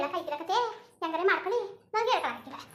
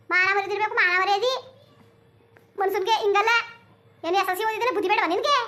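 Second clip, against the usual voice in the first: louder, lecturing on honour; loud scolding; 2 semitones higher, 5 dB louder than usual. Acted. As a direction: hammer home the point of shame. Mother lectures about honour.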